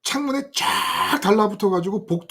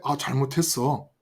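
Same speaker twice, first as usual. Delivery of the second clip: lightly acted whiny begging; imagined cowardly apology to the bullies, lightly acted; servile pleading. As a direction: grovel and apologize to the gang. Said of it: "내가 정말 비굴하게 얘한테".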